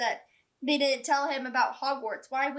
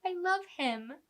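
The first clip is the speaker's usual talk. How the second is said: fond aww; 5 semitones higher, slower than usual. Retold or imitated. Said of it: "'cause I'm like".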